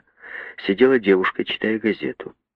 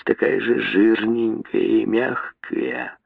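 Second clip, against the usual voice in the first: slow, relishing, higher lip-licking aside; a lecher muses to himself, slow and greedy; gloating aside; 3 semitones higher, much slower than usual. A narrator's reading. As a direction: savour each word like a treat. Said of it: "сказал себе Мэтт, облизываясь".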